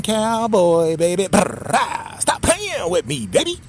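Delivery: catchphrase climbing way up high; playful high hype. Acted. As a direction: tease the viewers, voice flying up.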